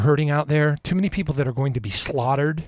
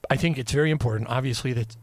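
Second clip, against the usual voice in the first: talking through the hiccups; hiccupy, halting speech; faster than usual. Real, not acted. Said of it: "I got the hiccups".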